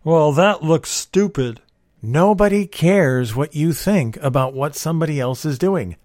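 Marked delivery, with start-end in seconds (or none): 0.0-1.6 slow, sneering put-down; mocking judgment. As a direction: sneer it like a snobby critic. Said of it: "inflict your opinions on them".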